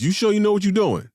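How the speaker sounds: put-on high, loud doubtful old man; imitating grandfather. Grandfather questioning the wedding plan, high loud impression. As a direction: repeat Pop's warning in his voice. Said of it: "His exact words".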